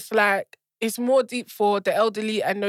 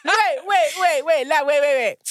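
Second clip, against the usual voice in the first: laughing; 4 semitones higher, 3 dB louder than usual. Real, not acted. Laughing, stopping the other.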